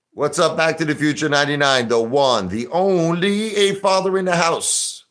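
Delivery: high, loud, stretched hype greeting; excited shout-out. Real, not acted. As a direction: hype the viewer's name like an announcer. Shouting out a chat viewer.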